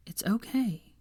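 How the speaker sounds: a hushed, comforting whisper; comforting him in the dark, whispered; soothing whisper. A narrator's reading. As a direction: reassure him under your breath.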